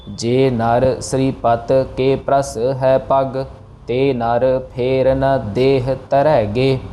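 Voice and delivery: slow, measured chanting; slow verse recitation. Shown as a demonstration. Teacher reciting the verse slowly for students. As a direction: recite each word slowly and evenly. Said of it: "teacher recites the verse".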